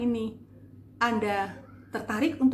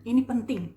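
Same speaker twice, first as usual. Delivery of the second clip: "ini penting" said with emphasis; stress on penting; 3 semitones higher, 4 dB louder than usual. Shown as a demonstration. Coach showing listeners emphasis, stressed "ini penting". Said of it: "Itu penekanan seperti itu".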